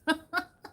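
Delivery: high breathy giggle while struggling; high strained laugh. Real, not acted. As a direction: laugh through the effort. Laughing at stuck lid.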